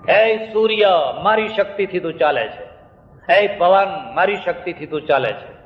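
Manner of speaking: mildly declaimed, a lightly voiced proud boast; proud challenge. A monk boasting to the sun and wind, mildly declaimed. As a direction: call out to the sun and wind with a touch of bravado. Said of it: "બધાને પડકાર આપે".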